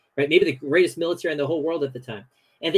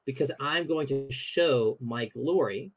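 calm God voice; slower than usual. Retold or imitated. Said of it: "God essentially says".

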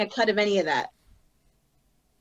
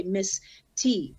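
"Miss" and "T" slowly, as two words; Miss T, separated. Shown as a demonstration. Rapper showing how easy her name is, "Miss T" slowly separated. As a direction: spell it out by ear: "Miss", then "T". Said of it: "putting the emphasis on a different word".

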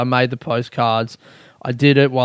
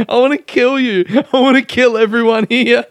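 imitated comedian; 8 semitones higher than usual. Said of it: "He just says to this lady".

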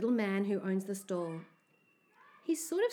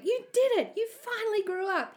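high, loud congratulating shout; gleeful yell; 13 semitones higher, 6 dB louder than usual. A narrator's reading. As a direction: cheer them on at full voice. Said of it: "yells Flogger".

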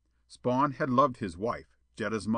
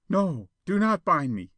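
high, louder plea; frightened protest; 8 semitones higher, 5 dB louder than usual. A narrator's reading. Jetta pleads against being tied, alarmed. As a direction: beg them off in alarm.

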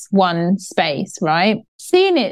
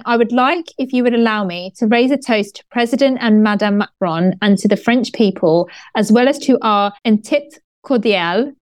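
put-on French accent. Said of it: "Did you like my little French accent there?".

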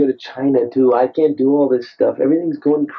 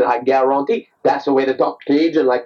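Cajun catchphrase impression; Justin Wilson; 2 semitones lower than usual. Actor showing the way to talk Cajun, Cajun impression. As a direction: say it like a Cajun humorist. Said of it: "be like Justin Wilson".

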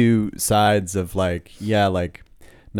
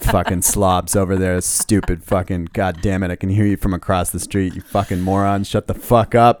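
hammed-up louder rant at loud strangers, building to a yell on the last line; mock angry rant; 5 dB louder than usual. Ranting to his girlfriend about loud strangers, mock furious yell. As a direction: grumble at the slobs louder and louder, then blow up. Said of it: "I'll just be like".

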